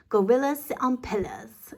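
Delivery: "pillars" said as pillas, no R; pillars without the R. Shown as a demonstration. Teacher showing the class a close rhyme, R dropped. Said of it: "kinda say it without the R".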